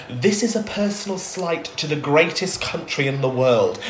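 lightly voiced pompous official; drawn-out retold outrage; indignant American team head. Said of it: "And he said".

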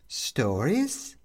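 a rising, curious lift; perking up. Acted. Mum perking up at the young woman, curious rise. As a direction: brighten at the idea. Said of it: "perking up".

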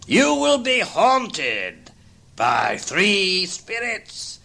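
very slow, high, portentous; slow ghostly warning. Acted. Ghost warns Scrooge of three spirits, very slow and ominous. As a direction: toll each word like a bell.

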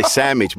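"sandwich" said as "sammidge"; variant pronunciation. Shown as a demonstration. Telling a co-host how some people say it, "sandwich" as "sammidge". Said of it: "some people say sandwich".

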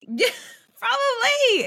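high, slow laughing reply. Real, not acted. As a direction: giggle the word out.

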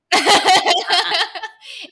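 big high laugh; loud laugh. Real, not acted. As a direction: burst out laughing. Laughing at racy line.

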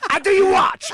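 put-on loud, very high botched Russian accent; bad Russian accent. Host imitating a Swiss fighter selling watches, badly faked Russian accent. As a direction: hawk it in a wildly off Russian accent. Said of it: "that's not even Russian".

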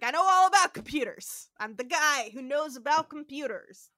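loud, emphatic retold brag; mock boast. Host voices Spock bragging to the lawyer, mock boastful. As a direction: crow it out in mock self-importance.

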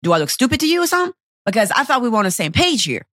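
retold indignant rant, mildly heated; touch of anger, pressing on without let-up; a little mad. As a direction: argue back as if exasperated. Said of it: "I was a little bit mad".

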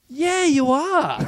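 slow, high teasing cop; deadpan cop. Retold or imitated. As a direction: drag it out, agreeing with mock scorn. Cop agreeing dryly.

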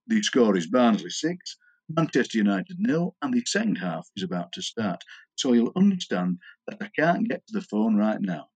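deadpan answering-machine announcement; Norman. Acted. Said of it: "His answering machine was Norman with a phone voice".

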